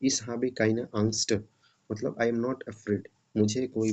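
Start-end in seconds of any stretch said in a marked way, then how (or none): 0.0-1.4 very slow, careful German reading; slow example reading. Shown as a demonstration. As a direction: read each German word slowly. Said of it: "इसका example यहाँ पे है".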